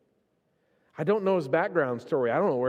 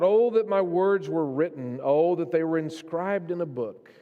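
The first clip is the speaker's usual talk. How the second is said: crying out; 3 semitones higher, 4 dB louder than usual. Retold or imitated. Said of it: "He cries out".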